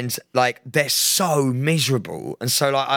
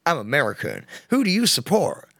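put-on American accent. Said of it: "every accent but American".

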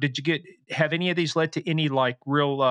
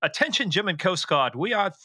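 British voice; 5 semitones higher than usual. Retold or imitated. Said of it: "you hear this British voice come on there".

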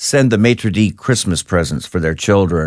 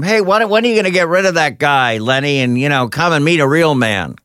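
retold taunting yell; 6 semitones higher than usual. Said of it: "he'd yell across the room".

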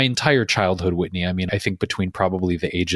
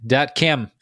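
deliberately bad South African accent; 4 semitones higher than usual. Shown as a demonstration. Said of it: "That was a horrible South African impression".

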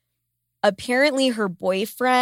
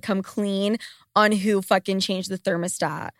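usual speaking voice

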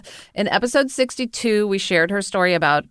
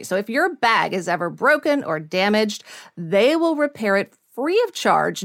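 upbeat sponsor read. Acted. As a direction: sell it like a radio ad.

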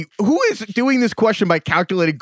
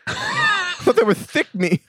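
high, slow, laughing dopey voice; goofy cartoon voice; slower than usual. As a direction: ham it up like a cartoon dummy. Teasing, voice pushed further.

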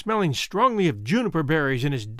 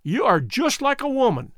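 put-on higher, exasperated German-accented outburst; yelled; 6 semitones higher than usual. A narrator's reading. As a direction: blurt it out as a cranky old German. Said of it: "yelled Bierman".

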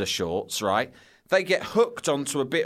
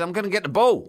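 higher, naive schoolboy voice; answering brightly, pitched up; innocent reply; 7 semitones higher, 4 dB louder than usual. Retold or imitated. Schoolboy telling teachers he'll fetch the ball, higher and naive. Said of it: "I said".

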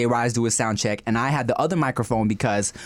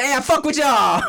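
laughing quote; 11 semitones higher, 4 dB louder than usual. Retold or imitated. Punchline of his funny story.

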